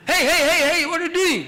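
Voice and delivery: high, loud shout through a laugh; loud laughing protest; alarmed shout. Retold or imitated. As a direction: cry out in mock alarm, laughing. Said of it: "Kali cries out".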